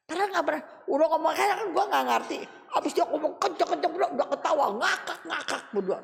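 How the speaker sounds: talking through real laughter, quick; laughing. Real, not acted. Preacher laughing over the shouting neighbour, real laughter. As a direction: giggle while telling it.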